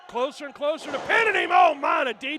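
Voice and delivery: fast shouted call; loud. Real, not acted. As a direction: shout the near pin. Pin attempt call.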